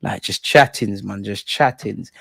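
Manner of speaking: slow, low, laid-back mumble of Saka's line; Saka thing. Retold or imitated. Streamer doing the Saka line to critics, slow and low. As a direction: drop low and drag it out casually like Saka. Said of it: "doing the Saka thing".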